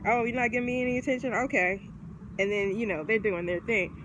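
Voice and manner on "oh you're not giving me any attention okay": fast, higher, mock-huffy Leo; mock offended Leo. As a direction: rattle it off like a slighted show-off. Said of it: "like, you know".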